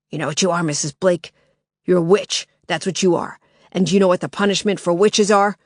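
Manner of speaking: harsh smoker's voice, menacing; menacing intruder. Acted.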